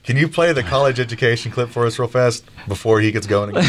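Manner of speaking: high, laughing mock host voice; playful laughing impression of a host; imitating a host. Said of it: "Maybe I'll have to get her on the next show".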